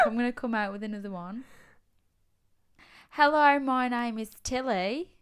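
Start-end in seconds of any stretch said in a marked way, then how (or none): 3.1-5.1 hammed-up Australian introduction; playful Australian twang; put-on Australian accent. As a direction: introduce yourself as a mock Australian. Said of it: "gonna put on an accent every week".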